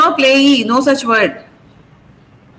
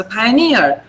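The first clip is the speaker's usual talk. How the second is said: "pioneer" with final NEER stressed; clear stress; 3 semitones lower than usual. Shown as a demonstration. Teacher summing up for students, "pioneer" stressed on NEER. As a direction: make the NEER of "pioneer" unmistakable. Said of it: "clear where the stress is".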